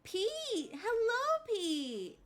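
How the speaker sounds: high, loud hello shout; light up at a friend's name; excited greeting. Real, not acted. Streamer calling out to returning viewer Pete, excited.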